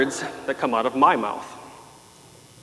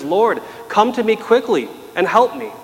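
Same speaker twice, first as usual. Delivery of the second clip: pleading cry; 6 semitones higher than usual. Retold or imitated. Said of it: "This woman looks at Jesus and says".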